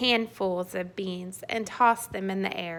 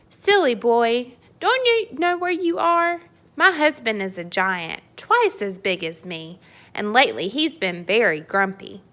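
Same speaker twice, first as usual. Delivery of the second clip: giant wife scolding; 2 semitones higher, 4 dB louder than usual. Acted. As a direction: warn the silly boy, half stern.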